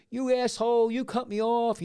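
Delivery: high, loud mock road-rage yell; imitated raging driver. Imitating the driver he cut off, raging. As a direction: rant like an enraged motorist, imitating him. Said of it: "going on, raging, right?".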